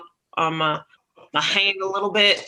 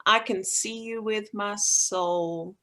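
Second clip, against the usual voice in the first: soft unvoiced whisper, slowing at the end; whisper in his ear; 5 dB quieter than usual. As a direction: breathe it right into his ear, tender. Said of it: "I'm going to whisper in his ear".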